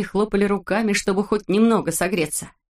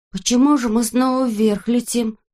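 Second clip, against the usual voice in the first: higher, puzzled question; surprised; 5 semitones higher, 3 dB louder than usual. A narrator's reading. Avoska wonders why the balloon rises, higher puzzled question. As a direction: wonder aloud, bewildered. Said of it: "удивился Авоська".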